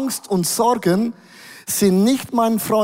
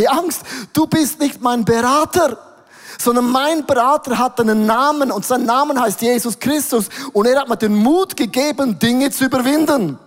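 raised, forceful voice addressing fear; bold louder declaration; 4 semitones higher than usual. Shown as a demonstration. Preacher addressing fear directly, raised and firm. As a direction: speak up firmly against fear, building. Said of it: "meine Emotionen werden lauter".

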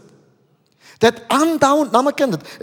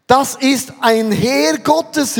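higher, drawn-out exclamation of wonder; astonished cry; 4 semitones higher, much slower than usual. Retold or imitated. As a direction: call it out slowly, amazed at the sight. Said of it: "rief erstaunt".

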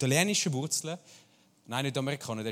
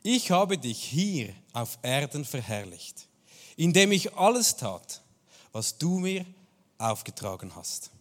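slow, weighty reading of the scripture line; measured, reverent quoting; slow solemn quote; 2 semitones lower, slower than usual. Retold or imitated. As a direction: let each word land slowly and solemnly. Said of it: "und da sagt Jesus".

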